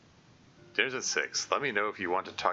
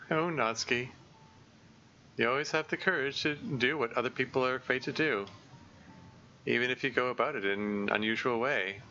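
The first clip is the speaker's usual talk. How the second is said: put-on higher, gentle admiring girl's voice; Monika's voice; 4 semitones higher than usual. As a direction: sound up and sweetly impressed. Voicing Monika in a visual novel.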